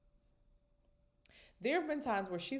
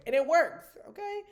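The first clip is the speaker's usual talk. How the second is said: excited emphasis; 11 semitones higher, 12 dB louder than usual. Real, not acted.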